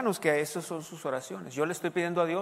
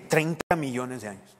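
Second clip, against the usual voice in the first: lower, doubtful repeat of the figure; sceptical echo; 5 semitones lower than usual. Real, not acted. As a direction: echo the number as if you don't buy it. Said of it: "ellos estuvieron ahí, ellos vieron".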